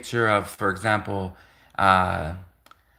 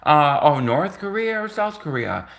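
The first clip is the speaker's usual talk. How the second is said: innocent question; 3 semitones higher than usual. Retold or imitated. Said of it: "So I said".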